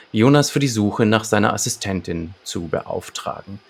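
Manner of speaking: measured synopsis read-out with deliberate pauses; story narration. A narrator's reading. Podcast host presents the detective's case to listeners, narrating. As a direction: read the case summary like an audio-drama narrator. Reads the episode synopsis aloud.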